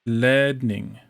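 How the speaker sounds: "Ledning" with a longer E. Shown as a demonstration. Following the tutor's correction, longer E. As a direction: stretch the E in "Ledning". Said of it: "Longer E".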